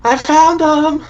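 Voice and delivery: high, long drawn-out call for help; yelling out. Acted. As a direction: call out to distant friends, stretched and high-pitched. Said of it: "yell out".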